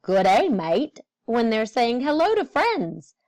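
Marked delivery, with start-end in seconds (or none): 0.0-1.0 a mild Australian twang with "mate" said as mite; light Australian accent. Retold or imitated. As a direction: imitate an Australian saying hello to a friend, lightly. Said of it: "They say things like".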